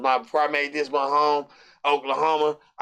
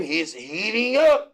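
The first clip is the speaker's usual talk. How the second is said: drawn-out, higher announcer catchphrase; video game announcer; 4 semitones higher, slower than usual. Retold or imitated. Quoting a basketball video game, slow rising announcer call. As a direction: stretch it slowly, rising on UP. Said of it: "What's that game?".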